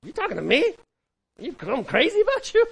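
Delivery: loud, high-pitched indignant snap at a stranger; hammed-up New York street defensiveness; suspicious New Yorker. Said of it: "In New York, you walk up to someone".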